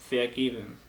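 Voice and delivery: Vergeben with ver light and geben stressed. Shown as a demonstration. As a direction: model the right stress on geben. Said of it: "¿Ven la diferencia?". (Vergeben con acento en geben)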